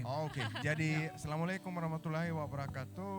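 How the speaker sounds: Danish-accented Indonesian; foreigner speaking Indonesian. Real, not acted.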